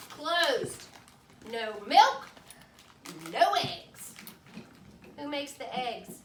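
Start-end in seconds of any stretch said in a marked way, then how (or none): 0.1-4.1 firm strike sign. Acted.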